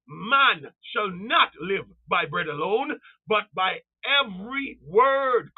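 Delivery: slow, drawn-out words; emphatic scripture quoting. Retold or imitated. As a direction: preach each word slowly, deliberately. Preacher declaims scripture to congregation.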